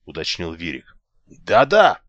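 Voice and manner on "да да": quick louder impatient yes-yes. A narrator's reading. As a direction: brush it off, hurry. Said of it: "нетерпеливо ответил Алекс".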